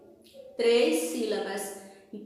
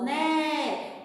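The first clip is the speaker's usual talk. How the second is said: "né" held out long; stretched stressed syllable. Shown as a demonstration. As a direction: hold "né" as the strong syllable. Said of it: "que se prolongou". ("né" prolongado)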